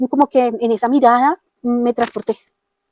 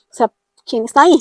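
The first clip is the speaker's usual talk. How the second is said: louder, rising, demanding the answer now; louder urgent repeat; 2 semitones higher, 5 dB louder, faster than usual. Retold or imitated. Alone at home she asks again who is there, louder and urgent. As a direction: press the question out into the room.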